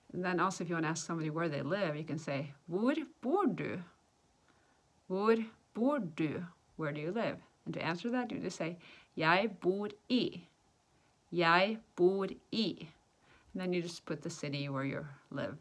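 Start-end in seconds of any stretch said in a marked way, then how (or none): 2.7-6.5 slow, carefully separated words; slow teaching model. Shown as a demonstration. Teacher showing how to ask where someone lives, slow demonstration. 9.2-12.9 very slow, separated words; slow teaching model. Shown as a demonstration. Teacher showing how to answer where you live, slow demonstration.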